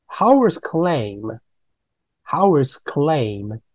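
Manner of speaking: "claim" slow with long ay diphthong. Shown as a demonstration. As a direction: stretch "claim" slowly. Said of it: "E I对不对？Claim". (慢念 claim 的 ei 音)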